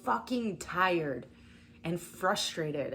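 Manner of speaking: a slow, tired, exasperated sigh of a voice; weary collective voice. Retold or imitated. Tired viewers venting about their exhaustion, in a slow exasperated voice. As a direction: drag it out like someone worn down. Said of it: "the collective is just like".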